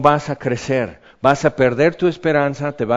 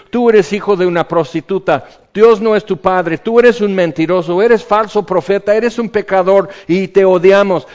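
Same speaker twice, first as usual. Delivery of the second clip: louder jeering mob; mocking insults; 4 semitones higher, 5 dB louder than usual. Tormentors jeer at Jesus, loud and hateful. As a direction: spit the insults at him.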